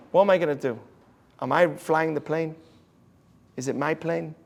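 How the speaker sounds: soft, low, unhurried questions; calm acceptance. Retold or imitated. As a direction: imitate a rabbi serenely letting go. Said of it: "How are you so calm".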